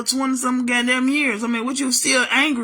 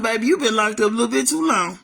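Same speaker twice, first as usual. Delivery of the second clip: sassy inner thought; 5 semitones lower, faster than usual. Retold or imitated. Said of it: "you know what I was thinking to myself?".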